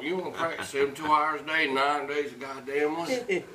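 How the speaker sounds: impression of a bandmate. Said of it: "Your impressions".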